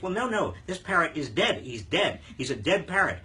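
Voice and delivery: punchy mock complaint; insistent retold customer. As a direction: play an exasperated customer, emphatic on each repeat. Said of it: "And the guy says".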